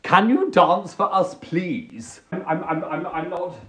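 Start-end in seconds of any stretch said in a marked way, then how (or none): 2.3-3.6 flustered stammer. Acted. Stammers when asked to dance.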